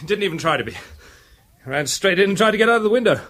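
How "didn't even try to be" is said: chuckling, slowed and amused; laughing report. Acted. Inspector laughs telling Peter the arrest story. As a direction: laugh as you give the news.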